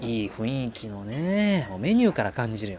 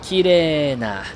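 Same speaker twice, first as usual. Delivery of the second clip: mock grandiose; 4 semitones higher, slower than usual. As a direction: present the grey sky like a treasure. Mock grand presentation of cloudy sky.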